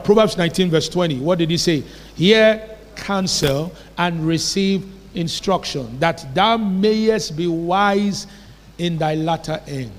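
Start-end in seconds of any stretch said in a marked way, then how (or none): 2.1-9.9 slow, deliberate Bible reading; scripture reading. Acted. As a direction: read the verse out word by word, measured. Reads a scripture verse aloud.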